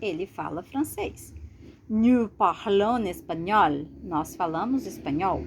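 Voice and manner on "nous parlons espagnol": Je parle portugais read slowly and clearly for the class; slow, careful French example sentence; slow model sentence. Shown as a demonstration. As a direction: read it out slowly like a language teacher.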